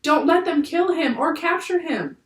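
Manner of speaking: high-pitched, distressed begging; narrated sobbed plea. A narrator's reading. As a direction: plead with a touch of tearfulness. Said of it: "she sobbed".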